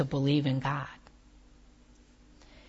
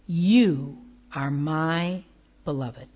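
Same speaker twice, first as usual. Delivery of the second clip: very slow and gentle, softening to the end; God's tender voice; 3 semitones lower, slower than usual. Acted. Preacher voicing God to Kim and Pierre, slow and gentle. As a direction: let each word fall like a blessing. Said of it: "Can you hear God say".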